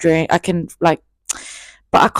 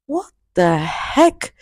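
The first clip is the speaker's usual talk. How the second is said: slow baffled what the heck; much slower than usual. Retold or imitated. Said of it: "And I was like".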